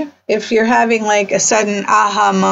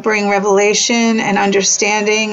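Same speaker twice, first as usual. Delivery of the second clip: closing prayer. Real, not acted. Host praying for listeners, in an earnest voice. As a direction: bless them gently as you pray.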